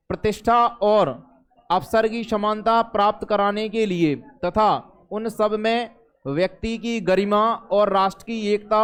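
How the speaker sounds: measured recitation of a constitutional preamble; formal reading aloud. Acted. Teacher reciting the preamble to students, formal reading aloud. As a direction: read it out phrase by phrase, with pauses.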